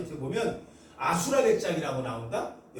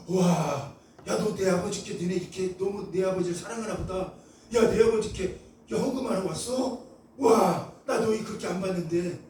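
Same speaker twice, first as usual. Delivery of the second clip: delighted Jesus. Retold or imitated.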